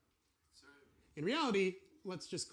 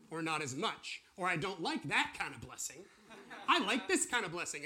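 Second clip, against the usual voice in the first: laughing; 4 dB louder than usual. Real, not acted. Jokes about preferring easy blessings.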